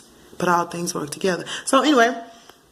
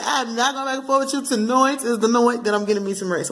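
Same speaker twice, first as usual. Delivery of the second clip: sassy refusal; 4 semitones higher than usual. Pretend. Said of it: "Why did you say it like that".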